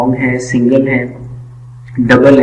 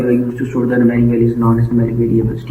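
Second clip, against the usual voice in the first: slow, word-by-word dictation pace; reading out the definition; 3 semitones lower, 6 dB quieter, much slower than usual. Shown as a demonstration. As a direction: read each word out slowly for the class to copy. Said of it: "इसमें लिखा हुआ है".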